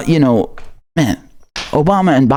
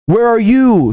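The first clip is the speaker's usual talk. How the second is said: angry shout; 7 semitones higher, slower than usual. Real, not acted. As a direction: yell it out demanding an answer. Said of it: "Here's the same anger".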